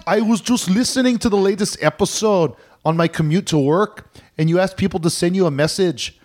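Irish brogue drifting toward Scottish; put-on Irish accent. Host reading listener Seamus's email, put-on Irish accent. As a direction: read it out in a hammy Irish lilt. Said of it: "sort of going towards Scottish there".

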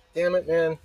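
hiccup breaking the words; frustrated, hiccuping. Real, not acted. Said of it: "Now I got the hiccups".

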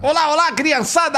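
put-on high, bright clown call to the kids; silly clown. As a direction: sing out like a kids' show clown. (palhaço animado chamando a criançada)

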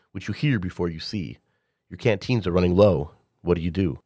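steady narration of a sci-fi world; game master narration. Acted. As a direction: set the scene like a game master. Game master reads the setting.

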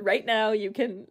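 real joy with a little laugh; audible joy. Real, not acted. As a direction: let joy come through, laughing mid-phrase. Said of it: "hear the joy in my voice".

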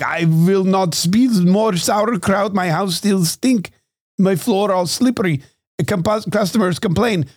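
high, slow German kraut lady; mock German accent. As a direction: complain slowly in a thick mock German accent. German sauerkraut lady voiced, fed up.

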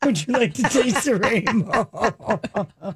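slow, laughing through the line; laughing pickup line. Pretend. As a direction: crack up while delivering the punchline slowly. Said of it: "I did forget to say that about the Skittles".

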